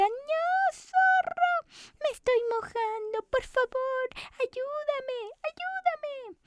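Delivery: very high, frantic cries for help; high cookie shrieking in panic at the fox; panicked cookie. Acted. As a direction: squeal for help as you sink. Cookie panics as water rises.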